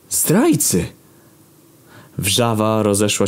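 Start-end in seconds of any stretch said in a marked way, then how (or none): 0.1-0.8 high, shouted accusation; angry shout. A narrator's reading. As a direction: yell it at the traitors. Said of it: "okrzyki odbijały się echem".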